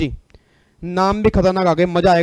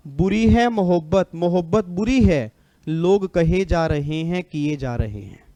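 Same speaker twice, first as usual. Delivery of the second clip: shayari recital; slower than usual. Acted. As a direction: draw out each line like a mushaira poet. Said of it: "एक line बोलूंगा बस". (शायरी की तरह ठहर-ठहर कर)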